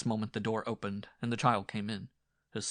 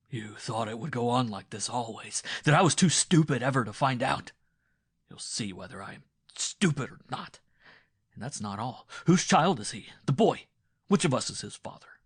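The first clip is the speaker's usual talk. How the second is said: loud, rising fury with high questions; husband shouting at his wife about the boy; shouting threats; 3 semitones higher, 9 dB louder than usual. A narrator's reading. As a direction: hurl the questions at her. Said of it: "shouting imprecations and threats".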